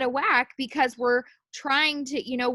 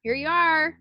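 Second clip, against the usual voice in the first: higher, louder ta-da delivery; mock fanfare; 7 semitones higher, 5 dB louder than usual. Mother mocks life handing over the wished-for time, higher and louder. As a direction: present it like a sarcastic gift. Life granting the wish, mocking.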